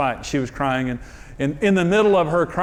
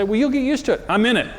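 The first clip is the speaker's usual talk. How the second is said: laughing self-quote; 7 semitones higher, faster than usual. Retold or imitated. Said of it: "I'd say".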